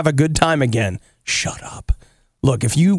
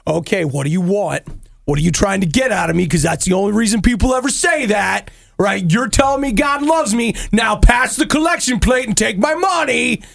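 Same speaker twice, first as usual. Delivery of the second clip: suspicious cynic; 5 semitones higher than usual. Retold or imitated. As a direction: get more and more suspicious. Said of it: "and you're like".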